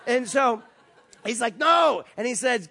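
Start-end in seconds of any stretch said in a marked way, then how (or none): 1.6-2.0 high, loud denial; imitated exasperated objection; loud refusal. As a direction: shoot the answer down emphatically. Man loudly objects again.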